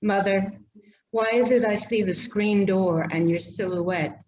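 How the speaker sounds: measured, slowed poem reading voice; poetry reading. Acted. Poet reading her poem to the audience, measured and unhurried. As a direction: let each image land gently. Reads childhood memory poem.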